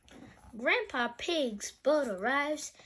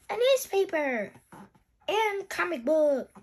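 high, loud exclamation; excited loud storybook voice; Granddad Dog and Danny Dog; 8 semitones higher, 8 dB louder than usual. Acted. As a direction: call out the items, falling at each end. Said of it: "says Granddad Dog and Danny Dog".

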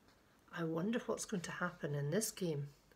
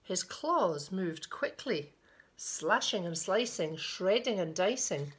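put-on children's picture-book reading, lilting; storyteller pausing between phrases; story narration; 3 semitones higher, 4 dB louder, slower than usual. A narrator's reading. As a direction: read it to little ones with deliberate emphasis. Reads a picture book aloud.

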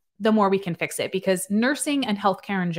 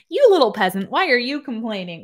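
a hint of a sneering boss, louder; mock snooty boss; 5 semitones higher, 5 dB louder than usual. Mocking the boss sneering at her nurses. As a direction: sneer down at the little people. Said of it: "starting to look like".

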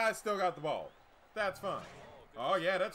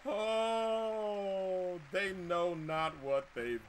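mock solemn laughing; much slower than usual. Real, not acted.

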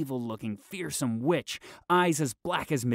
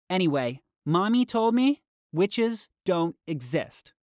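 put-on girl voice; 7 semitones higher, 5 dB louder than usual. A narrator's reading. Callie reassuring herself.

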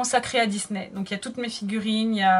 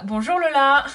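cheerful hello; 3 semitones higher, 5 dB louder than usual. Shown as a demonstration. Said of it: "tu peux dire bonjour Lola".

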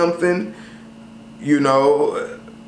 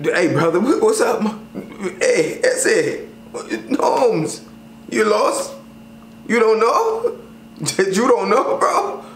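ghetto tough talk; 5 semitones higher, slower than usual. Retold or imitated. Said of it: "sometimes you gotta let the ghetto out".

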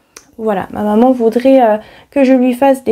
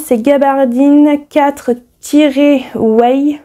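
slow, careful English fabric name read with a French accent; 2 semitones higher, slower than usual. Real, not acted. Sewing vlogger reading an English fabric reference, slow French-accented English. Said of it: "Désolée pour mon anglais".

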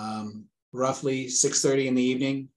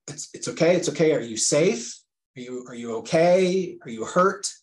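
raised and louder, anxious comforting; urgent reassurance; 3 semitones higher, 4 dB louder than usual. Retold or imitated. Father on the phone to his crying daughter, urgently reassuring. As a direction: reassure her fast, voice up and pushing.

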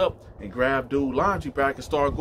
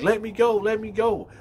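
high-pitched acted cry for release; retold urgent plea to be let go; raised, insistent mock pleading; struggling plea; 11 semitones higher, 3 dB louder than usual. Mother being shaken, pleads.

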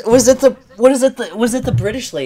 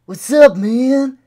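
lightly voiced hippie dinosaur, drawn-out "man"; a hint of laid-back hippie, rising a little; 2 semitones higher, slower than usual. Puppeteer greets a stranger as a hippie dinosaur, hippie voice. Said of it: "hippie dinosaur".

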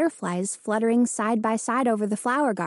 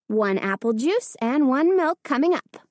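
cheerfully; 4 semitones higher than usual. Acted. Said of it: "she said cheerfully".

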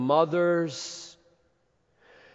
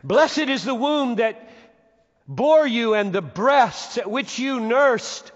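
raised, high cry of praise; woman crying out; 10 semitones higher, 8 dB louder than usual. Retold or imitated. Woman in the crowd praising Jesus, crying out. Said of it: "a woman cried".

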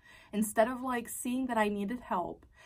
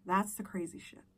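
whisper. Real, not acted. Aside on her own story.

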